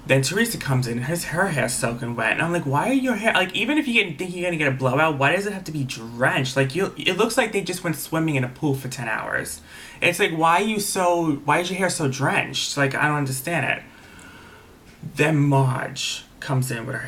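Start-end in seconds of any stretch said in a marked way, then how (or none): 2.6-13.8 mock bafflement, pitch lifting on the questions; exasperated disbelief. The teller recounts griping at soaked hair, exasperated.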